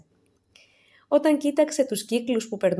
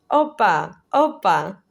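cheerful opa; 5 dB louder, much slower than usual. Acted. Dancing along, cheering herself on.

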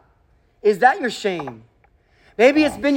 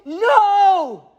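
high, panicked cries of doom; terrified wailing; 7 semitones higher, slower than usual. Acted. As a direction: wail in terror as if about to die. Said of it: "His reaction is".

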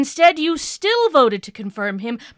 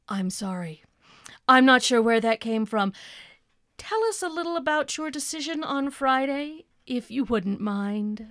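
calm recovery; 5 dB quieter than usual. Acted. Interviewer regains composure.

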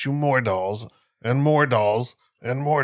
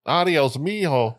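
doll voice; 6 semitones higher, slower than usual. Retold or imitated. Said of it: "That's pretty good".

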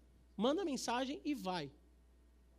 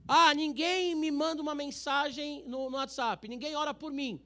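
higher, louder, slow mock whine; mock complaining churchgoer; 5 semitones higher, 7 dB louder, slower than usual. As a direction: imitate a sulky member. (imitando um fiel reclamão)

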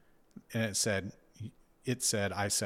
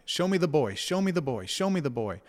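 higher, louder repeated plea, half-acted; begging to see his five-year-old self, pitched up and louder; retold inner scream; 7 semitones higher, 5 dB louder than usual. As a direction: call out insistently like a mild mock yell. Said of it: "It was almost like I was screaming".

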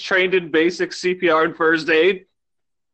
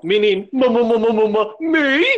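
stammering realization; 5 semitones higher than usual. Acted.

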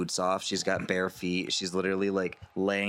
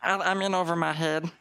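much higher, relieved rush; panicked real self; 9 semitones higher than usual. Acted. Disguised figure confessing to Lance once the door shuts, much higher. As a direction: drop the act in frantic relief.

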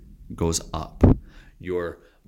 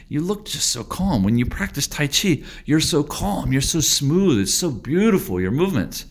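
higher, lightly voiced admiring fan; admiring students; 7 semitones higher than usual. A hint of impressed admirers praising the teacher's calm. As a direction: gush a little about how calm he is. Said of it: "Many people ask me".

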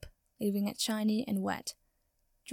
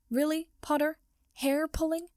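higher, louder breathless jeer; panting; 7 semitones higher, 3 dB louder than usual. Acted. Draco wrestling Potter in pain, panting jeer. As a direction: gasp it out mid-fight, mocking. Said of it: "he panted".

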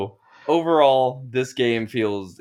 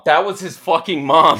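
laughing; 5 semitones higher, 9 dB louder than usual. Real, not acted. Laughing disbelief at the story.

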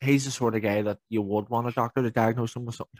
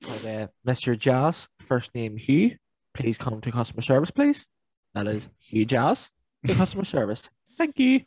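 supermarket announcement; slower than usual. Pretend. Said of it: "the Tannoy in Tesco's".

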